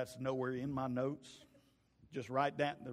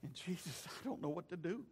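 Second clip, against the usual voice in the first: helpless plea; 3 semitones higher, 5 dB quieter than usual. Retold or imitated. Father confessing to Jesus he is lost, hushed helplessness. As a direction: admit quietly that you are lost.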